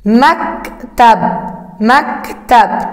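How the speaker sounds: مكتب stretched very slowly twice; teacher repeating مكتب slowly; slow repeated sounding out. Shown as a demonstration. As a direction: hold every sound of مكتب. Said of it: "استمع".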